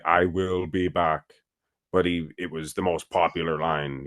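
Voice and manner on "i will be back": slowly spaced, uncontracted "I will"; robotic wording. Arnold correcting the director on how a robot talks, slow and deliberate. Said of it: "A robot will say".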